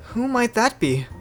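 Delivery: high, simple reply; young Noi. Acted. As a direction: pitch it up for the young hero. Voicing Noi in dialogue.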